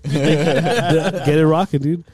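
slow, laughing through the words. Real, not acted. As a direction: say it while cracking up. Laughing while repeating.

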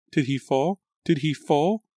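high, frantic repeated asking; narrator's frantic voice for a stunned cousin; breathless and frantic. A narrator's reading. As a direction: ask it over and over, out of her mind. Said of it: "repeated the question breathlessly, crazily".

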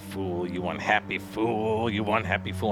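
slow sing-song taunt; jeering. Acted. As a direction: repeat it as a drawn-out mock heckle. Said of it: "I'm just jeering".

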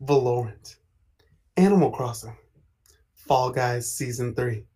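lightly put-on award show host; white woman announcer voice. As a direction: read it like a polished announcer. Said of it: "my white woman, um, announcer voice".

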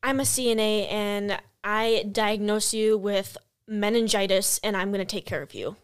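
earnest self-important nurse voice; imitating suitemate. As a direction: play her as a know-it-all. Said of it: "She goes".

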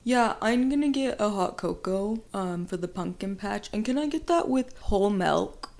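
"I'm" as "ine", "pumpkin" as "punkin", "milk" as "melk"; mock order using "ine", "punkin" and "melk"; all mispronunciations combined. Mimicking the dreaded man ordering cocoa, every word mispronounced. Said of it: "crafted a sentence with all of those words".

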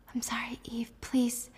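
breathy pleading whisper. Acted. Bullied boy begging Eve, whispering. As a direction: beg softly with no voice. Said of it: "So he whispers".

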